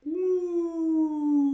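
high, loud ooh of mock alarm; a sudden high hooting ooh. Real, not acted. Reacting to falling poll numbers with a high mock ooh.

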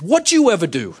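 put-on classic New York accent. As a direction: confront him in imitation New Yorkese. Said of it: "Classic New York accent".

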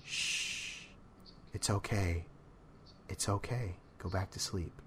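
hushed, soft shushing to calm; mild imitated soft hush; soothing hush. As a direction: soothe someone back to sleep, quietly. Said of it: "I heard Jake go".

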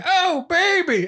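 high, slow, drawn-out mock lust; hammed-up passion. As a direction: stretch it out like a cartoon seductress. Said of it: "she just goes".

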